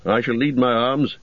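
encouraging warrior voice; rally them with hope; Boromir voice. Acted. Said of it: "he said".

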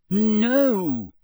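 sharp high loud no; firm no. A narrator's reading. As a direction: snap back with dignity. Hermione retorts.

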